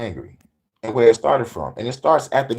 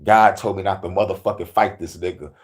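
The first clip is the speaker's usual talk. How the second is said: 1 grumbling Michael; 4 semitones lower than usual. Acted. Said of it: "Michael over there with his arms folded".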